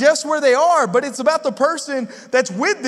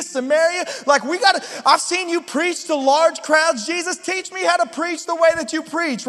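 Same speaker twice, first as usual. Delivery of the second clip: eager disciples; 6 semitones higher than usual. Retold or imitated. Disciples eagerly begging Jesus to teach preaching. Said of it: "they say".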